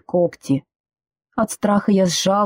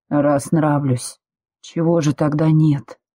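slow gentle man; 3 semitones lower, slower than usual. Acted. Man softened.

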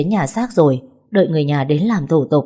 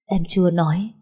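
put-on dazed girl replying without feeling; mechanical reply. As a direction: answer like a machine. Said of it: "Tôi đáp lại như một cái máy".

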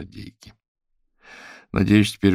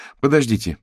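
a louder, higher cry to interrupt; exclaiming; 6 semitones higher, 5 dB louder than usual. Acted. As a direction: call out to stop the room. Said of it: "воскликнула Евгения".

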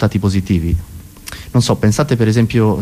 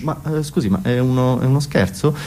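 barista; 4 dB quieter than usual. Acted. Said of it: "il barista gli fa".

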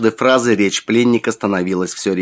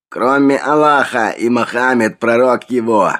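raised, strange-sounding protest; objecting prisoner; 3 semitones higher, 3 dB louder than usual. A narrator's reading. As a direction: object in a foreign-tinged voice. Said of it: "возразил пленник".

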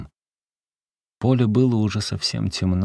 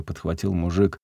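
ordinary delivery

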